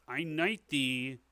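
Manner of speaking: slow ceremonial proclamation; king knighting someone. Acted. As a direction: proclaim it grandly, pausing between phrases. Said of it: "holds out his sword and he says".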